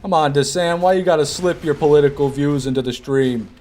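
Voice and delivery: half-joking exasperated rant at chat; exasperated scolding. Real, not acted. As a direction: scold him, fed up. Scolding chatter over politics.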